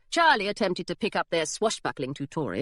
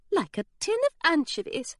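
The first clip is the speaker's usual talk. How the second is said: dry remark; 8 semitones higher than usual. Acted. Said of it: "Miss Grayson remarked".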